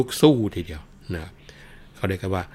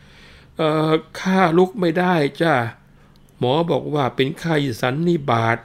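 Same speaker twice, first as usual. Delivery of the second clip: feigned dying man; 6 semitones higher, 4 dB louder than usual. Acted. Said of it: "ร้องบอกว่า".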